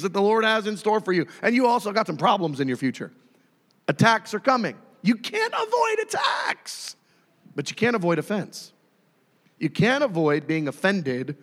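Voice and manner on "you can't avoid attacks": high, drawn-out warning; emphatic high cry. Real, not acted. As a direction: cry it out slowly, far above normal pitch. Preacher's emphatic warning, against next line.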